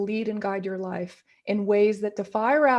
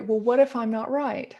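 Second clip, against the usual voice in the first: mock anxious worrying; 4 semitones higher, faster than usual. Voicing worried people's doubts.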